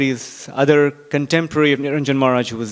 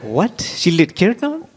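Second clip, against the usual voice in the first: much higher, slow, rising disbelief; incredulous; 4 semitones higher, slower than usual. Retold or imitated. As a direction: echo it back as if you can't believe it. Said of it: "And they're like".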